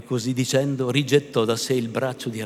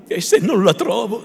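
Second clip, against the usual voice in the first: 1 rising anger; 6 semitones higher, 8 dB louder than usual. A narrator's reading. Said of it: "la rabbia riaccesa".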